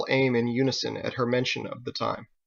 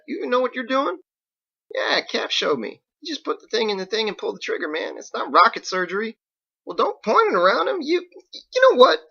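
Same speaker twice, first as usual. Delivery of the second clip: higher, louder alarmed country voice; excited Biggs; 7 semitones higher, 5 dB louder than usual. Acted. Biggs alarmed at Ditch's grenade launcher, loud and high. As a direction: panicky local fussing at the kid.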